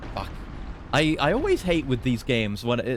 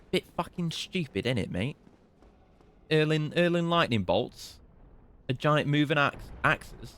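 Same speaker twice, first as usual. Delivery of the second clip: attempted British accent; 4 semitones higher than usual. Gamer mocking a beaten enemy, attempted British accent. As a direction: put on a bad British banter voice. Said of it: "Can't even do a British accent".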